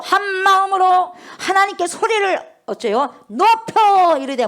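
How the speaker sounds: full-force preaching climax; rising preaching. Real, not acted. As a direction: lift the voice as they lifted theirs. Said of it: "preacher building to a climax".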